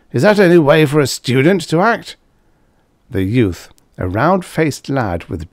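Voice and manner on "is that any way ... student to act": a somewhat louder, higher tipsy loudmouth; Karsh, tipsy braggart. A narrator's reading. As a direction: play the boozy blowhard at the bar. Karsh voiced in story.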